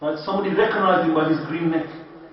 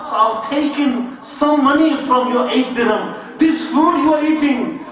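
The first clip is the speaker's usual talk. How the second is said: put-on flustered young man; 4 semitones higher, 3 dB louder than usual. Panicked young man confessing.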